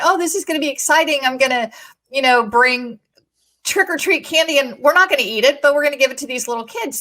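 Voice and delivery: bubbling with plans for the trick-or-treaters; lightly voiced eager anticipation; retold excitement. Excited retold plan for candy.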